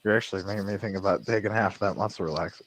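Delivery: soft whispered aside; hushed joking admission. Real, not acted. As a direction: whisper it like a guilty confession. Joking aside about taking pills.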